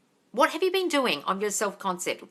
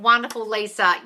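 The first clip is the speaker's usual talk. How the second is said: ordinary talk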